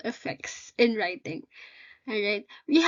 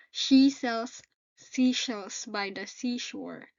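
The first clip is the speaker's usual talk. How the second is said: sore jaw from braces; slower than usual. Real, not acted. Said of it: "forgive me if I can't ... pronounce it ... braces adjusted".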